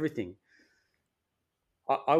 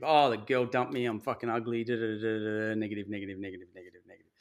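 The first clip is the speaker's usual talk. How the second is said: mock negative moan; 2 semitones lower than usual. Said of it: "very easy to be negative".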